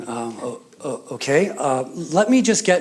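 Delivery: acted hesitant, halting clerk; flustered stammer. Young man behind counter facing angry customer, flustered stammer.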